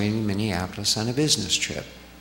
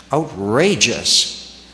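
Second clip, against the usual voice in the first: slow, drawn-out, louder outrageous; indignant; 4 dB louder, much slower than usual. Retold or imitated. Shirley fuming about her missing tins, slow and louder. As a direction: drag out outrageous in mock outrage.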